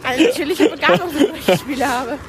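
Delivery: laughing through a mock boast; giggling while bragging. Real, not acted. Boasts playfully about talent.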